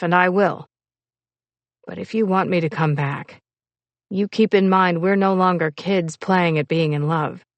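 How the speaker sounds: firm man's voice, insistent and fed up; stern frustrated lover. Acted. Rebuffed lover giving her an ultimatum, stern and insistent. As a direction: lay down terms, lightly in character.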